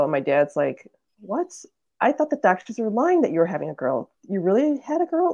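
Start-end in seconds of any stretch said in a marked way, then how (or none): 1.2-5.3 higher-pitched incredulous questioning; mock astonishment, pitch climbing; disbelieving dad. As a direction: imitate a dad who can't believe the news. Dad's disbelieving reaction retold.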